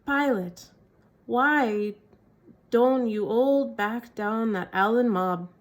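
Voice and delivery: lightly voiced Cockney jeer from a preacher. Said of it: "droll eyes and cockney voice".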